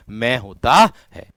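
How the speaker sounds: slow, drawn-out मैं as a model; saying the letter ma. Shown as a demonstration. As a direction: sound out मैं carefully for pupils. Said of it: "क्या होता है?".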